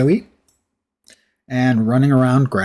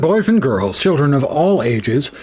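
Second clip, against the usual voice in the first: announcer voice; 4 semitones higher, 4 dB louder than usual. Pretend. Mock showman opening to viewers.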